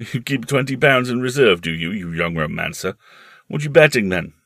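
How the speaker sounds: loud, amused uncle voice; amused teasing. Acted. Uncle teasing the young romancer, amused. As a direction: tease as if at a good joke. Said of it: "The uncle thought it a good joke".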